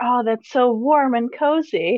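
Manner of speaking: soft, quiet whisper. A player whispering into a character's ear, whispering in his ear. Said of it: "Can I whisper in his ear".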